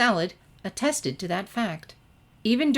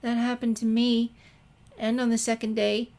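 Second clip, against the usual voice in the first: put-on higher, timid girl's voice; Fluttershy; 5 semitones higher than usual. A narrator's reading. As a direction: ask gently, a little afraid to speak up. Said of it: "added Fluttershy".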